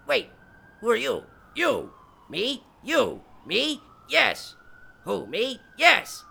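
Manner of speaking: arguing with himself. Acted. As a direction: argue with yourself like two people. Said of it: "now I'm talking to myself".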